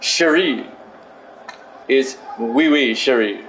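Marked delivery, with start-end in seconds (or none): 1.9-3.5 playful French accent. Shown as a demonstration. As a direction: lower mock French accent, chuckling. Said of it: "Say it like you're French".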